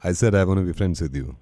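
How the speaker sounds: deep and slow like a shy creep; low shy creep voice. Acted. Prank caller flirting with woman, low slow voice.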